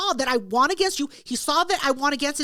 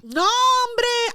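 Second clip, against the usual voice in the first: high, drawn-up objection; indignant protest; 10 semitones higher, 4 dB louder than usual. Real, not acted. Woman answering her friend's beer rule, indignant. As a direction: push back hard on the accusation.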